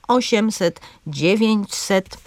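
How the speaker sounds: O-siem-set, DZIE-więć-set; first syllable stressed in "osiemset" and "dziewięćset"; antepenultimate stress. Shown as a demonstration. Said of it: "z akcentem na trzecią sylabę".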